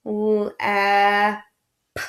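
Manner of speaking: "L, ah, p." each sound apart; segmented sounds. Shown as a demonstration. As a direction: sound out "lap" piece by piece. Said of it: "you guys know this one".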